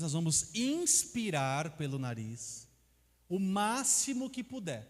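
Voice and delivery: slow, calm breathing instructions; guided breathing. Shown as a demonstration. To the audience doing the exercise, slow guiding voice. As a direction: lead the room through each breath slowly.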